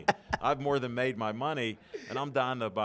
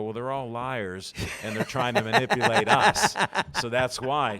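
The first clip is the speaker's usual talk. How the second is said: amused self-quote, pitched up; laughing retort; 8 dB louder than usual. Retold or imitated. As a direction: laugh out the punchline of his own comeback. Retelling his reply to the manager.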